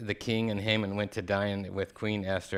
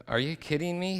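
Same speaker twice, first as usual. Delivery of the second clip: infuriated; 9 semitones higher than usual. Acted. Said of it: "He was so infuriated".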